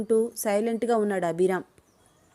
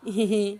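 awkward half laugh. Acted. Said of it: "ఇబ్బందిగా ... వచ్చి రాని నవ్వు".

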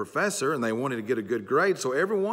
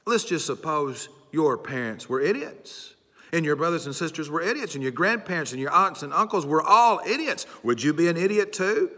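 mock professor's taunt, higher and building louder; ridiculing; 5 semitones higher, 3 dB louder than usual. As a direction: lightly act out a condescending put-down, pitch climbing to the question. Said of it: "trying to ridicule her and embarrass her".

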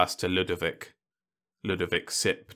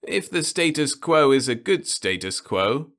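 uneasy; 8 semitones higher, 5 dB louder than usual. Acted. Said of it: "Ludovic said uneasily".

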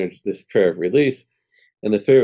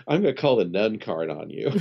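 laughing. Retold or imitated. Laughing while quoting the nun.

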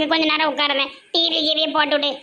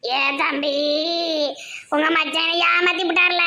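tearful wailing complaint to a brother; crying; 3 dB quieter than usual. Acted. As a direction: wail it out through sobs. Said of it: "ஏன் அழுதுட்டு வர". (அழுது புலம்பல்)

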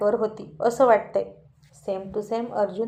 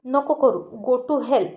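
angry retort; slower than usual. Acted. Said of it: "तीही चिडून म्हणाली".

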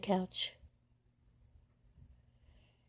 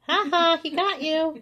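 much higher, louder delighted cry; excited; 11 semitones higher, 6 dB louder than usual. Real, not acted. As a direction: cheer the cat's pounce. Excited at cat's pounce.

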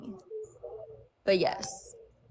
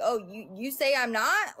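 hint of a defiant comeback, acted out; mock challenge; 3 semitones higher than usual. Imitating people who treat it like a test, mock challenge. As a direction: take it up like a dare, lightly acted. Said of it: "Like it's a test".

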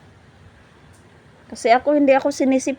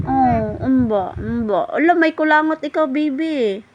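put-on lilting, higher baby talk; 3 semitones higher than usual. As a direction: coo playfully at the baby. Cooing to baby about booger. (malambing na kausap sa sanggol)

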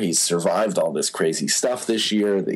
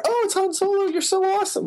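very high-pitched mock fan squeal; gushing fan. Fan gushing over a star they spot, mock excited. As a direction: gush in a put-on, far higher voice. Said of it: "gushes over you".

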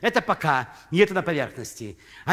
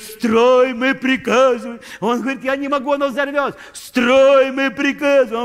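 louder, higher barked command; mock bosses' order; 7 semitones higher, 7 dB louder than usual. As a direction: bark the order like an impatient boss. Retelling bosses ordering the builder.

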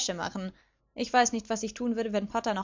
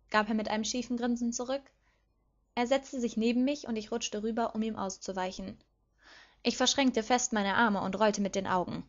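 ordinary delivery

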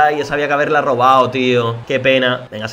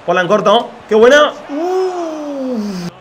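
excited yell; 9 semitones higher, much slower than usual. Real, not acted. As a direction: explode as the chance flies by. Jugada de gol emocionante. (grito de emoción, agudo y fuerte)

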